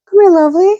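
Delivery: high whispered come here; hushed pet call; whispered coax. Real, not acted. Calling dog in whisper.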